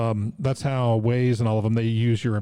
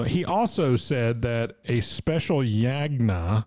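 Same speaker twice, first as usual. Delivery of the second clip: put-on Indian accent; slower than usual. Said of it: "I don't do an Indian accent".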